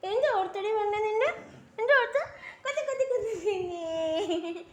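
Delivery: high, loud, playful build to the punchline; spring the end of the rhyme on the baby; playful rhyme climax. Acted. Mother to baby at the rhyme's end, loud and playful.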